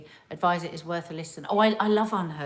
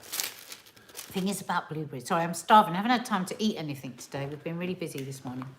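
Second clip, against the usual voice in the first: wolfing down food; 4 semitones lower than usual. Real, not acted. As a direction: mouth full of blueberries. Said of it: "eating blueberries really loudly in my ear".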